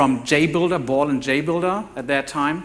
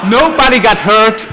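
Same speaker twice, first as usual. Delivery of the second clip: laughing; 6 semitones higher, 8 dB louder than usual. Real, not acted. Crash video just shown, audience laughing.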